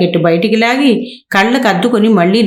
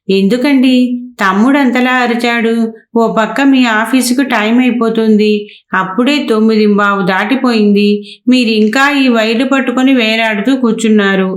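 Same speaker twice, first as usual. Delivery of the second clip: mildly annoyed; 3 semitones higher than usual. Acted. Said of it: "కొంత విసుగుదల ప్రదర్శిస్తూ అడిగింది".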